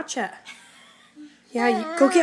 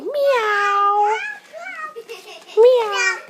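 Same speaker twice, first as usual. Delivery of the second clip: louder high cat meow; a bright meow to get a reaction; playful meow; 5 semitones higher, 3 dB louder than usual. Pretend. A parent meowing loudly for the toddler.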